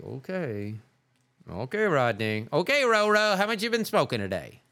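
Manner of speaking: a lightly voiced mocking friend; mocking doubters. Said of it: "people are like".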